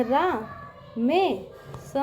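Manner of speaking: रा, मे, स apart, ending in plain s; mistaken spelling demo. Shown as a demonstration. Teacher shows pupils' hasty mistake, रा मे स in syllables. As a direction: sound out रा मे स with s for sh. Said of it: "इस तरह लिख देंगे".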